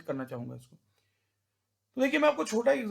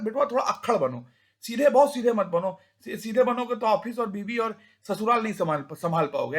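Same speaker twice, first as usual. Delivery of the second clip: village uncle; 4 dB louder than usual. Retold or imitated. Uncle lecturing boy, rustic.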